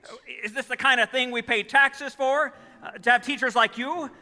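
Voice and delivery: angry rant. Acted. Father scolding the teacher on the phone, angry. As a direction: scold her down the line.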